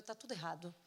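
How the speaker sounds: soft, understated despairing lament; mildly acted weepy defeat; tearful despair. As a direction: say it quietly, as if worn out from crying. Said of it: "mas assim, chorando".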